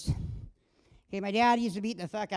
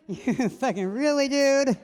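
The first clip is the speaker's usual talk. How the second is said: mock outraged yell; 4 semitones higher, 8 dB louder, much slower than usual. Retold outrage at ex-boyfriend.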